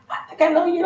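high-pitched imitation of an excited fan. Fan recognizing someone at a bar and grill, excited. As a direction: gush it as an excited stranger. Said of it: "The girl was excited".

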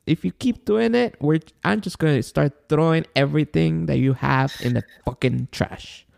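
retold high-pitched warning to the kids; high-pitched telling-off. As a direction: lay down the law in a high voice. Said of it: "my high pitch that I told them".

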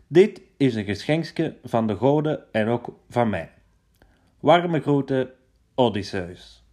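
loud, blustering letter read-out; boastful letter voice. Acted. Odysseus taunts Paris in his letter, loud and smug.

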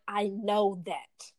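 slow, measured reply, holding calm; forced calm. Retold or imitated. Actress answering the makeup artist, forced calm. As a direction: say it as calmly as you possibly can. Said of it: "speaking to her as calm as possible".

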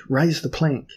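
shouted. Acted. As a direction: call it across the deck. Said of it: "he shouted".

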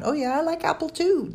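high, cheerful reply with a smile; pleased and light; smiling. A narrator's reading. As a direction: say it through a smile, pitched well up. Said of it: "Dell smiled".

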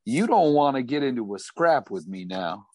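a touch of Southern cowboy warning; a hint of a Southern cowboy accent; Southern drawl. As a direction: talk him down in a Southern drawl. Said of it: "Thornbuckle's accent".

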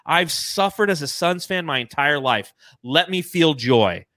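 lightly voiced stern marshal; a hint of a gruff lawman; Tommy Lee Jones quote. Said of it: "Tommy Lee Jones is looking at him saying".

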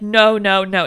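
loud, mock stonewalling; blanket refusal. Imitating church officials turning every request away, blanket refusal. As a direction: shut it down firmly, imitating officials.

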